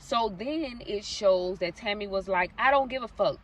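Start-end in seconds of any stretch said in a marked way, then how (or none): 2.6-3.4 loud, high retold yell of defiance; raging scream. Retelling the girlfriend raging at the boyfriend, in a loud high yell. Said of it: "raging, screaming".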